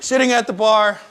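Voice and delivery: normal talking voice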